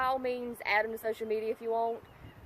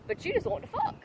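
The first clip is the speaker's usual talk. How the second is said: exasperated rant; 6 semitones higher, faster than usual. Real, not acted. Ranting about the hookup text.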